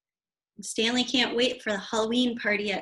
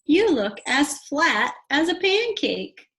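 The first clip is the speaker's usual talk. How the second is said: higher, louder fond remark; higher louder gushing mum; gushing mother; 6 semitones higher, 6 dB louder than usual. Acted. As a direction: coo over the costume. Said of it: "the horse's mother said".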